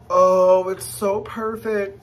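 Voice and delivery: excited high gush; thrilled. Real, not acted. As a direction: gush over the bag. Reveal of the bag.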